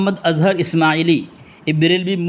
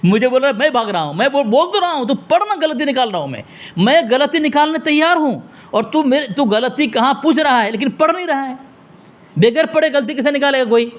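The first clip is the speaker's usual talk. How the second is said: raised, higher-pitched argumentative voice; heated arguing; 5 semitones higher than usual. Real, not acted. Accusing the caller of running from reading, raised angry voice. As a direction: push back hard at the opponent.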